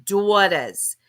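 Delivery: imitated Boston or New York accent on "daughters"; mock East Coast gangster. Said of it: "Why did you say it like that".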